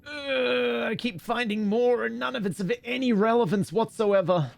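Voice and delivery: high, whining moan about useless clues; exasperated whining at the game; whiny complaint.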